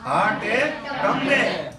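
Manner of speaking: high, slow mock yell of હાટે ટમરે; repeating the wife's yell; retold yell. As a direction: bark it slowly and high. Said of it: "શું કીધું?".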